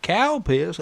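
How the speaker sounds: "cow piss" in a hinted Southern US redneck drawl; quoting the famous British guy, a light redneck accent; British man's redneck accent. Retold or imitated. A Brit doing a mock redneck accent. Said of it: "Why do you sound like a redneck".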